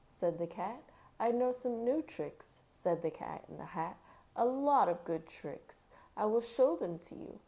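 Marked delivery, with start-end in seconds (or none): 1.2-7.4 cat showing off, louder; boastful cat. Acted. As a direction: sell the tricks like a showman.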